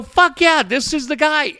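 excited fan cheer. Retold or imitated. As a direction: pump your fist at the owner's words. Fan reacting to owner's bold talk.

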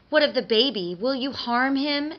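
a touch of fearful tremble; trembling voice. A narrator's reading. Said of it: "with a tremble in her voice".

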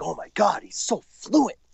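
high-pitched, gushing amazement; gushing admirer. Retold or imitated. French speakers in the States hear him speak, gushing. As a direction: mimic a starstruck fan, pitch shooting up. Acting out impressed listeners in the States.

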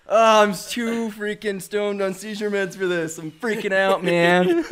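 spaced-out and understated; mock stoned. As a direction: freak out without raising the voice. Deadpan act of freaking out.

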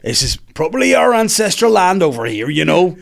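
acted African-accent impression; black African accent. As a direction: argue a claim in a mimicked African accent. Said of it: "how the black Africans speak".

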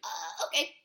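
low, doubtful mock acceptance; retold reaction. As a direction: go along with it, unconvinced. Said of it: "I was like".

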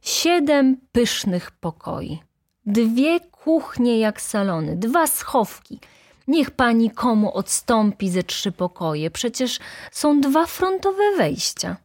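high, slow emphatic enumeration; exclaiming steward. A narrator's reading. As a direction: exclaim each selling point, drawn out. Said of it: "zawołał rządca".

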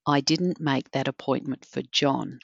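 emphasis on didn't, calm and level; stress on didn't. Shown as a demonstration. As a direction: lean on didn't to deny it. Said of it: "change the tone or the emphasis on a different word each time".

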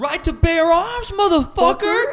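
loud, high, slow hammed-up battle cry; action-hero shout. Founding fathers in an action movie, hammed-up shout. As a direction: stretch it into a mock war cry.

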